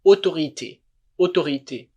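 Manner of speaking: "autorité" starting on a pure oh; "autorité" with au as a single O vowel. Shown as a demonstration. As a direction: model "autorité" as oto-ree-tay. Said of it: "perceba que esse fonema aqui".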